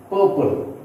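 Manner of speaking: "purple" with PUR punched, second syllable light; stress on first syllable. Shown as a demonstration. Teacher listing adjectives for learners, first-syllable stress. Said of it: "here also we stress on first syllable".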